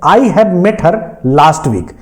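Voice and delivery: each word laid out slowly for dictation; teacher dictating an English example; slow example read. Shown as a demonstration. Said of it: "पहला example है".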